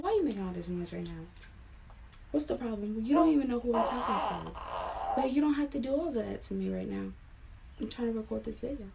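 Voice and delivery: fast, irritated telling-off of someone nearby; real annoyance, hurried and exasperated; annoyed scolding. Real, not acted. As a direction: snap at them to stop the noise. Same scolding, repeated footage.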